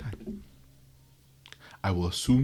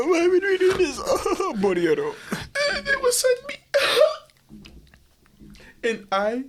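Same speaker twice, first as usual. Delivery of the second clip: high, laughing villainess voice; anime villainess; 4 dB louder than usual. Acted. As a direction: gloat and giggle like a villainess. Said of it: "You sound like the bitch from Kakegurui".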